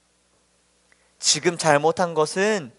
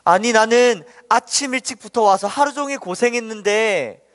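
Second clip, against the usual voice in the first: mildly indignant protest, pitched higher; acted-out grievance, higher than usual; angry complaint; 4 semitones higher than usual. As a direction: retell a worker arguing at unfair pay. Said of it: "화가 났습니다".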